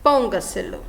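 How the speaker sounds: "póngaselo" stressed on PÓN, falling away after it; early-syllable stress. Shown as a demonstration. Teacher giving an example of a sobresdrújula, "póngaselo" with first-syllable stress. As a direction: hit the first syllable of "póngaselo", then drop. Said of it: "quarta, quinta ou sexta sílaba mais forte".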